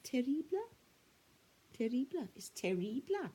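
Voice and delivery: lightly put-on Italian lilt; a hint of mock-Italian; Italian film accent. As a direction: imitate a word from an Italian film. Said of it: "I heard it on a, on an Italian film".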